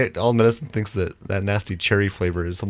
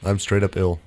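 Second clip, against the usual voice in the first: hoarse voice from a cold; sick voice. Real, not acted. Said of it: "my sick voice is sick".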